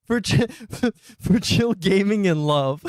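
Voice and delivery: can't get the words out for laughing; laughing through it. Real, not acted. Streamer rereads the silly title while laughing.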